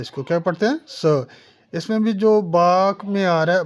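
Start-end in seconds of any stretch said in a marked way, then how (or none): 0.9-1.2 स said as 'suh', without the r of sir; silent final r. Shown as a demonstration. Teacher showing how native speakers say sir, r-less स. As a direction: drop the r and end स on an open vowel. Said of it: "सर है तो स पढ़ते हैं".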